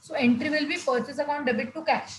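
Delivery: slow, spelled-out dictation. Shown as a demonstration. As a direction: dictate it slowly to the class. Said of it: "normal entry पास करना है".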